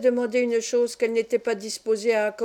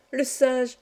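excited cry, echoed; 2 semitones higher than usual. Acted. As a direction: echo the cry, calming slightly. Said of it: "s'écria Arthur".

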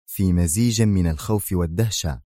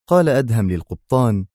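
plain reading voice

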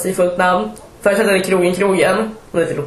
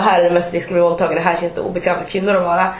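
quick quoted caption; 2 semitones lower, faster than usual. Retold or imitated.

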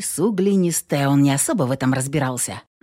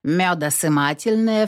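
usual speaking voice

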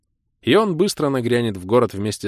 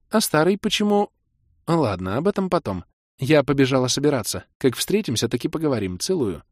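put-on lightly higher young woman rushing off; quick goodbye with a kiss; hurried girlfriend; 6 semitones higher than usual. Kira winding up the call.

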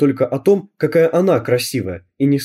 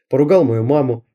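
ordinary delivery, nothing marked

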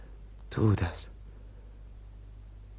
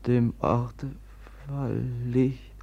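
prayer. Acted. Brother prays for the dead woman by candlelight. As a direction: pray over the dead, reverently. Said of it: "ich will beten".

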